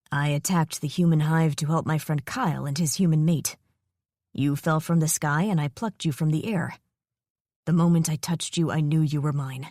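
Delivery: a calm dragon explaining the bond; solemn, possessive dragon; dragon mate voice. Acted. Dragon voice speaks in her mind.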